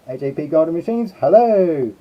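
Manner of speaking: breathless greetings from the hot costume; puffing between names; out of breath. Real, not acted. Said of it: "I'm getting out of breath".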